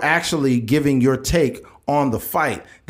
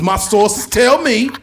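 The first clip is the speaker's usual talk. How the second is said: slow pundit build-up; 6 semitones higher, 5 dB louder, slower than usual. Retold or imitated. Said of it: "Stephen A. Smith be like".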